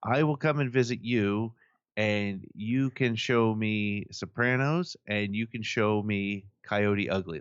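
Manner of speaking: slow, deliberate mock German accent; bad German accent. German kid planning a visit to America, rough German accent. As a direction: imitate an eager German teenager, accent roughly done. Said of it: "not gonna do a good German accent".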